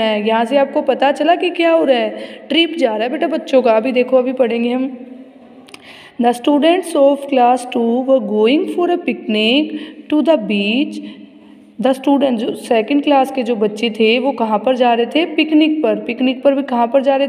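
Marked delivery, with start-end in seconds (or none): 6.2-11.0 very slow, word-by-word reading; measured classroom reading with drawn-out words; textbook read-aloud. Acted. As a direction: read it out slowly for young pupils. Reads textbook aloud slowly.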